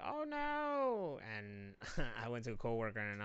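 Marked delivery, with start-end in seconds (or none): 0.1-1.2 high, whiny mock wail; mock fan lament. Mocking Cubs fans who lost their players, high mock whine. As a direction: imitate a heartbroken fan.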